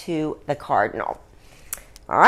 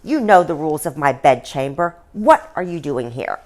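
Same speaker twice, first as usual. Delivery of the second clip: sharp; 3 semitones lower, 4 dB louder than usual. Acted. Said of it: "the Queen said sharply".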